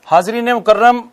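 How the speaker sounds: ordinary talk, nothing marked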